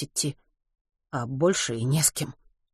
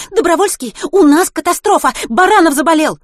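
high, loud, breathless gabbling; rapid chatter; 11 semitones higher, 10 dB louder than usual. Acted. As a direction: rattle it off in a panic. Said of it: "затараторила она".

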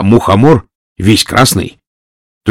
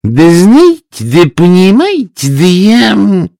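high, loud, slow mumbling; 10 semitones higher, 4 dB louder, slower than usual. Acted. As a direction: falter and mumble. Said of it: "Поганка что-то мямлила".

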